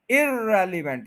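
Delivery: इररेलेवेंट with ई stressed; wrong stress. Shown as a demonstration. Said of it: "ये stress गलत है".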